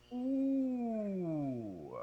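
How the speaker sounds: high pure ooh with curled tongue. Shown as a demonstration. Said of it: "I'll go and then you go".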